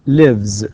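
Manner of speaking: loud "lives" with a buzzing vz; voiced Z ending. Shown as a demonstration. Teacher asking students to notice the pronunciation, voiced ending. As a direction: let "lives" end in z. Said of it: "لاحظ كيف أنطق هنا؟".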